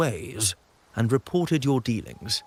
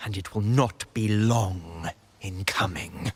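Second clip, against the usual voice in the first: lower, menacing close with heavy pauses; ominous threat; 4 semitones lower than usual. Acted. Order zealot parting from Montelli daughter, low ominous threat. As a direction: let the threat sink down, word by word.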